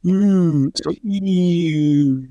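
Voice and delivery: "e" said with lips rounded as for a kiss, so it turns into ü. Shown as a demonstration. A linguist showing how lip rounding turns e into ü. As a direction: push your lips out as if to kiss and say "e". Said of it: "make 'em round like you wanna kiss someone".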